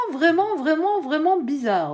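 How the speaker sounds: "vraiment" repeated with high, emphatic beats; insistent repetition. Real, not acted. Insists on how strange it is.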